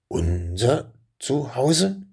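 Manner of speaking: slow, puzzled rising question; utterly baffled. Acted. Dragon slowly repeats the words, baffled. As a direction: turn it over in disbelief. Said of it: "fragte er völlig verblüfft".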